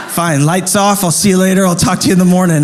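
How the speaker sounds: laughing mock huff. Mock huffy dad, laughing.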